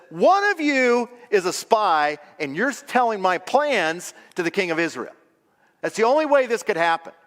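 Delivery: lightly acted accusation, high, loud start; accusing king. King tells his leaders one is a spy, accusing. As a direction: confront the room as an angry king.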